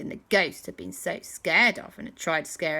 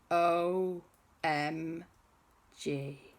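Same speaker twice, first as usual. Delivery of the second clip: stunned realisation; 5 dB quieter, much slower than usual. Acted. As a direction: spell it out in slow, stunned disbelief. Owen hears the grave news.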